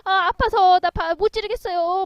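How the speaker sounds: loud, high, slow whimpering plea; milk the pain like a feeble king; whining in pain. Acted. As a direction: emperor whining he cannot go on. Voicing whiny fallen emperor.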